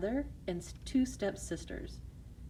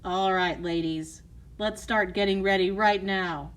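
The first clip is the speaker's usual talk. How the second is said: bossy stepmother; 4 dB louder than usual. Acted. Stepmother bossing.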